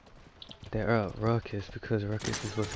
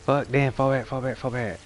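shouting orders over battle; 3 semitones higher than usual. Real, not acted. Calling retreat to team.

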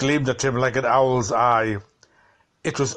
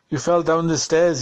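worried wife; 3 semitones higher than usual. Acted. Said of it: "She was crying as she called to him".

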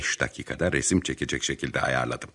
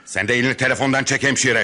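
barked, raised command; sharp order; 8 semitones higher, 6 dB louder than usual. Acted. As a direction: snap at the nurse. Threatening the nurse.

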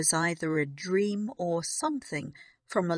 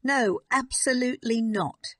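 sharp, higher snap; snapping; 6 semitones higher, 4 dB louder than usual. A narrator's reading. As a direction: cut her off hard. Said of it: "she snapped".

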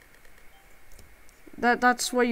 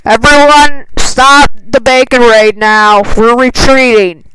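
loud urgent shout to the team; calling out; 3 semitones higher, 14 dB louder than usual. Real, not acted. Streamer shouts to teammates to stop the raid, loud call. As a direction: yell orders across the game.

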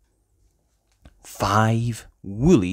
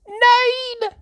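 high, louder excited reveal; excited shout; 4 dB louder than usual. Acted. Reader revealing the ducks, big excited cry. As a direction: burst out with the number. Climactic count.

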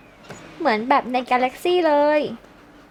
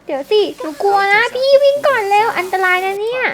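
put-on higher, louder, panicky little girl; scared child voice; 6 semitones higher, 5 dB louder than usual. Lizzie begging her brother to run first, scared and higher. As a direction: plead like a frightened kid.

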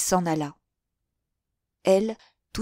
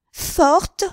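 higher, louder second "Forte?", pitch climbing; rising outrage; 11 semitones higher, 9 dB louder than usual. A narrator's reading. Henriette hurling the word back at Denise, rising fury. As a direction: repeat it, angrier still.

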